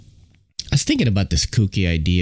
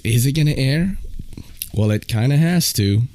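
unvoiced whispered aside; 5 semitones higher than usual. Real, not acted. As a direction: whisper it to yourself. Aside to himself.

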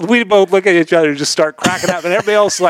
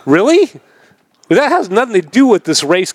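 mock disbelief; 6 semitones higher than usual. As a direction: pitch it way up in disbelief. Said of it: "And I'm like".

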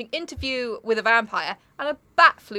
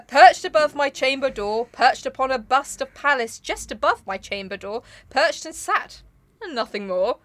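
measured, rhythmic verse; poem recitation. Acted.

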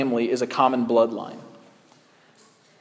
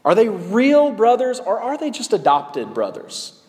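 higher, insistent question; 6 semitones higher than usual. Shown as a demonstration. Preacher voicing the woman's real question, pitched higher. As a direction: lift the voice high and press the question. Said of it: "She wanted to ask".

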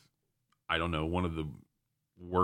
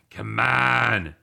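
louder frustrated cry; loud exasperation; 4 semitones higher, 8 dB louder than usual. Real, not acted. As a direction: throw it out in disbelief. Exasperated over the bet.

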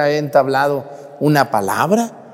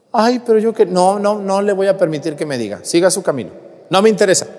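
higher, indignant mock huff; offended lady; 6 semitones higher, faster than usual. A rebuffed gossip huffs at the priest, mock-offended. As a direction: play the affronted gossip, pitched up. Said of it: "se fue más enojada".

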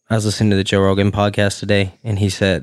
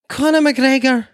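announcer voice; 4 dB louder, slower than usual. Acted. Hyping the fight topic.

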